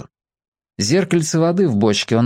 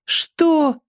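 put-on questioning boy. A narrator's reading. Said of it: "спросил с крыши мальчик".

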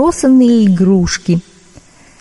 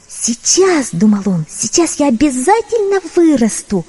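hopeful kitten voice; 5 semitones higher than usual. Acted.

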